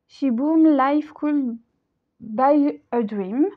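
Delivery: song title said slowly in a heavy French accent; slow, careful English in a heavy French accent; bad English accent. Shown as a demonstration. Psychic reading an English song title to viewers, heavy French accent. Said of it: "excusez-moi pour, euh, mon accent pourri".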